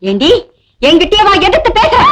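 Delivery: rising to a high, furious yell; furious shout. Acted. Stepmother yelling at her stepdaughter for talking back. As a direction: scream at her for daring to answer back.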